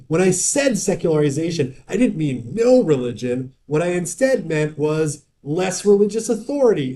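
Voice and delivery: mock academic self-justification; mock gaslighting. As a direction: mimic someone redefining their own words, voice lifted. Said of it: "accusing a bunch of academics of gaslighting".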